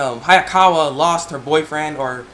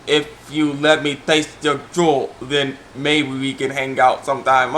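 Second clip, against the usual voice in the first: creepy slow request; 3 semitones lower, slower than usual. Retold or imitated. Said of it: "And he's like".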